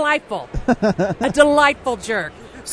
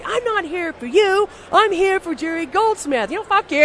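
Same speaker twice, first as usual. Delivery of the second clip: higher-pitched angry outburst at a rude star; retold angry telling-off; 4 semitones higher than usual. Storming off, telling Shatner off in anger. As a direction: snap back, fed up and indignant. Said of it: "Now I'm mad".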